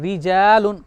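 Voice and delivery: रिजालुन with a fine, thin R; thin light R. Shown as a demonstration. Teacher modelling the thin reading, thin R. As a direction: keep the R light in रिजालुन, drawing the long vowel. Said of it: "पतली करके पढ़ रहे हैं".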